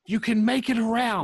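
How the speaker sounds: high, projected stage whisper; exaggerated in-character whisper; mock stage whisper. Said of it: "I whisper".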